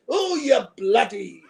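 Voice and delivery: slow, drawn-out mock cursing; lightly voiced old sailor swearing; British sailor talk. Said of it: "see, that was sailor talk".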